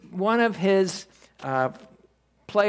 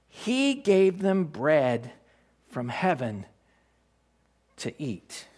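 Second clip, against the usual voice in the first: scripture reading; 2 semitones lower, slower than usual. Shown as a demonstration. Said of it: "As it is written".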